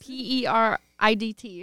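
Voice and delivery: P E R I D T spelled letter by letter, slowly; spelled-out "periodt" slowly. Shown as a demonstration. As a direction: spell out P E R I D T as slang. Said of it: "Is that how the per-, period?".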